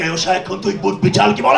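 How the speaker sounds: Bengali mother's threat in her own tongue; Bengali mom scolding. Retold or imitated. Mother threatening her daughter in Bengali, scolding. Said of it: "she would be like".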